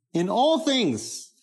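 "all" lifted high and slowed way down; emphasis on all. Shown as a demonstration. Preacher showing how speakers stress "all". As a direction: drag out "in all things", slow and high. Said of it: "would emphasize this aspect".

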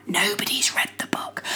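unvoiced whispered aside. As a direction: whisper it conspiratorially. Aside whispered during explanation.

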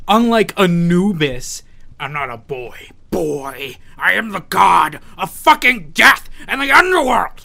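slow, loud, high proclamation; booming god of death. Acted. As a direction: proclaim your godhood.

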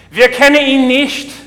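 loud and high refusal through the door; monk yelling back. Retold or imitated. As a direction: shout the refusal back, firm. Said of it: "yelled back through the door".

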